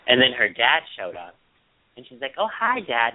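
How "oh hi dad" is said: high, pouty lips-down hello; imitating Victoria greeting dad. Retelling how the daughter greets her dad, high and pouty. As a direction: push the lips down and lift the voice. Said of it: "she did the same thing".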